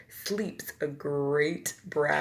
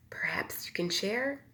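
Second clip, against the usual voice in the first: whispered hint; 6 dB quieter than usual. Acted. Badger hints for food.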